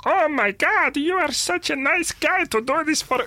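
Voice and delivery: squeaky mock foreign child. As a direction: play a game child in a put-on accent. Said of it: "even the children are like".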